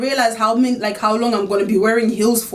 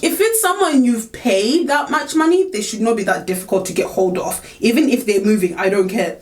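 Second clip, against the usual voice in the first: indignant telling-off, slowing on the first words; retold anger. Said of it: "I got pissed".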